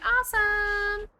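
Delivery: high, slow whisper; a hushed, high, slow "awesome"; breathy squeal of delight. Pretend. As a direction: whisper it, thrilled, drawn out. She answers in character.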